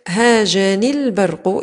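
هاجني البرق run together as haajanil-barqu; drawn-out هاجني البرق, held on the joining l; linked, ya dropped. Shown as a demonstration. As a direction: slowly link هاجني البرق straight onto the lam. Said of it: "هنا التقاء ساكنين يحذف ساكن".

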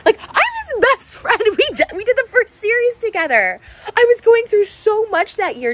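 a touch of crying laughter; tearful laugh. Real, not acted. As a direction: laugh in disbelief while near crying. Crying-laughing over betrayal.

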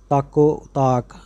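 ਤਾਕੋ ਤਾਕ run together with no break; ਤਾਕੋ ਤਾਕ smoothly joined, never split apart; joined phrasing. Shown as a demonstration. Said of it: "ਤਾਕੋ ਤਾਕ ਇਕੱਠਾ ਪਾਠ ਹੈ".

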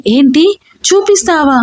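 a wife startled by his tease, lightly scared; a touch of playful panic; frightened. A narrator's reading. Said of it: "అంది భయపడుతూ".

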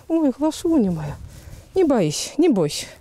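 low, gentle, reassuring; calming a horse. Real, not acted. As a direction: soothe a frightened animal. Calming frightened mare.

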